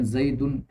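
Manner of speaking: زیدن with a clear -un ending, zaidun; showing the nominative ending of زیدن; case ending demo. Shown as a demonstration. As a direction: end the word on a plain -un. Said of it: "ہم تلفظ کر رہے ہیں اس پہ".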